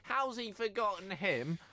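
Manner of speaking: high, slow, indignant outburst; outraged listener. Retold or imitated. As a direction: play an outraged fan at the radio.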